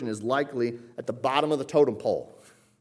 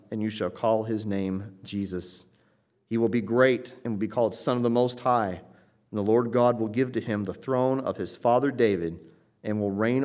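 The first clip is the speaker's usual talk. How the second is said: scripture reading. Acted. Pastor reading Luke to the congregation, solemn and declaiming. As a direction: read the passage like it's sacred text.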